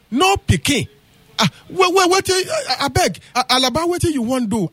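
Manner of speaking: high, stammering panic; flustered husband. Acted. Husband panics to the elder about no child, stammering high. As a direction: stutter it out, rattled and high.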